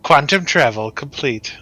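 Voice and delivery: lightly imitated ship computer; cute little robot announcement. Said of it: "the cute little robot voice".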